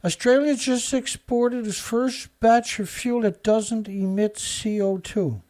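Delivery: a pointed reread that slows on emit C O two; mocking reread. Shown as a demonstration. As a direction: reread it so the absurdity shows. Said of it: "Think about the statement".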